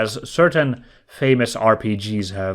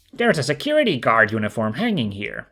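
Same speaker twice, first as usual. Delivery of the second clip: narrating in the Phoenix voice; lightly voiced as Phoenix; Phoenix's voice; faster than usual. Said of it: "That's Phoenix's voice".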